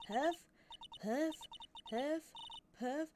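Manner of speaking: huffing and puffing. Acted. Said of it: "all that huffing".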